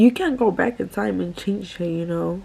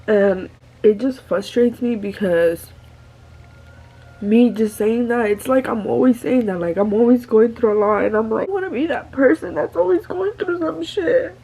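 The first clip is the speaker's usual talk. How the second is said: crying; 2 semitones higher than usual. Real, not acted. Emotional vent, breaking down.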